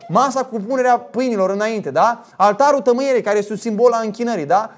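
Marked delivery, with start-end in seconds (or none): none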